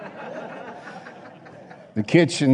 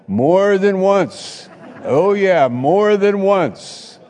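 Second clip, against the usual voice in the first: emphatic exclamation; 9 semitones higher, 5 dB louder, slower than usual. Real, not acted. Laughing over kitchen fires.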